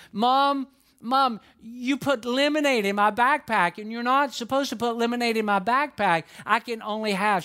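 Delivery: mock-upset small child; upset little girl. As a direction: voice a fretful preschooler. Upset four-year-old quoted.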